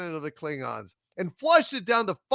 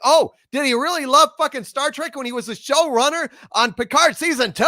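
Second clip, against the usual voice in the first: louder, mocking angry retort; sarcastic shout; 4 semitones higher, 5 dB louder, faster than usual. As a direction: throw the question back with scorn. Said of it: "And it's like".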